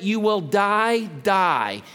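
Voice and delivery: solemn warning weighted on DIE, DIE; very emphatic. Acted. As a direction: land hard and slow on each DIE. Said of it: "Very emphatic".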